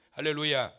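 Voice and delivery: normal talking voice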